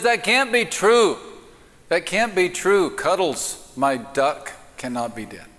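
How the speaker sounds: high, mock-distraught woman in denial; distraught pet owner. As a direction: wail it in comic disbelief, starting high and easing down. Woman refuses news of duck's death.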